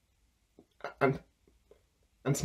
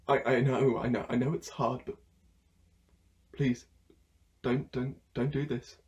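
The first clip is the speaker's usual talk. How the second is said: pleading; 4 semitones lower than usual. Acted. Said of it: "of course I'm getting emotional".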